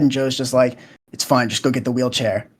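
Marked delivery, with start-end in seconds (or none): 1.1-2.5 quiet, low mock-angry grumble; understated imitation of restrained anger; retold anger. Joe telling his son to fetch the wheelchair, quietly angry. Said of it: "in a very angry tone".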